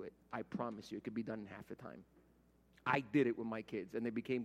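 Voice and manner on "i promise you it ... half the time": quiet, intimate restatement; softer repeat. Shown as a demonstration. Pastor repeating the promise to the congregation in a quieter voice. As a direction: drop it low and confiding.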